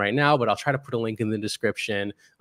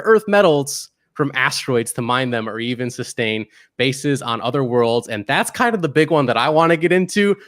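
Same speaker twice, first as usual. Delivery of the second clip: lifted, louder, eager build-up; a little excited; 2 semitones higher, 5 dB louder than usual. Real, not acted. Host sharing the big experiment with listeners, a little excited. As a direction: get carried away with real enthusiasm. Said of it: "I got a little excited about this".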